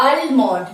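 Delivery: আলমন্ড with the L sounded; wrong pronunciation. Shown as a demonstration. Teacher reading out the written word, wrong pronunciation. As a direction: read আলমন্ড as spelt, al-mond. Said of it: "L is also silent here".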